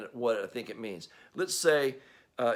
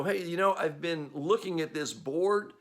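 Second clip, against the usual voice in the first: cocky know-it-all; 4 semitones higher than usual. Retold or imitated. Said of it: "you go".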